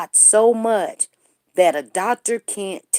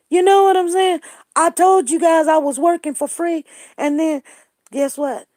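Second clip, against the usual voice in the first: indignant; 7 semitones higher, 5 dB louder than usual. Real, not acted. Indignant outburst to viewers.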